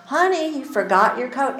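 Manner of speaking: high, sing-song mock-sweet call. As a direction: coo it at him to embarrass him. Imagined embarrassing call in classroom.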